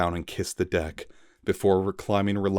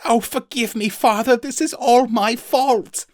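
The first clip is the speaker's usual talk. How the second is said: anguished plea; 6 dB louder than usual. Acted. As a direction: beg forgiveness in despair. Son begging father's forgiveness.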